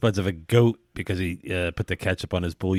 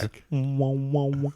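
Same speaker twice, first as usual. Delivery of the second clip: higher-pitched wah-wah mimicry; imitated feedback noise; 4 semitones higher, 3 dB quieter, slower than usual. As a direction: mimic the wobble of mic feedback. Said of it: "it's just feedback".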